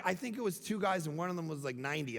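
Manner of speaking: correcting him in a dry murmur; a lightly voiced wife correcting the story; wife interrupting. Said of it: "She's like".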